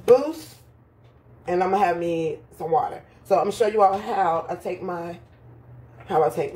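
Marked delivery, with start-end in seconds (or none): 0.1-0.5 excited reveal. Acted. Dramatic reveal of product.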